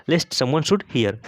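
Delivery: each word drawn out slowly for learners; slow dictation. Shown as a demonstration. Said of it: "teacher models English sentence slowly". (बहुत धीरे, शब्द-शब्द करके)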